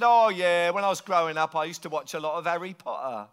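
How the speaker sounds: lightly imitated English accent; strong English accent. Local explaining how he got his accent, strong English accent. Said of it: "you've got a very strong English accent".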